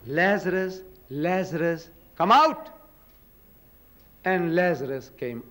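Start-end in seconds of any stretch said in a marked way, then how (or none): 0.1-2.7 retold shout. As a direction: call out the name, then lift sharply on "come out". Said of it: "and he shouts".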